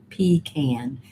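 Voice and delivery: pecan said as 'PEE-can'; long 'ee' then short 'a' in pecan; another's pecan. Retold or imitated. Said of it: "Is that what you say".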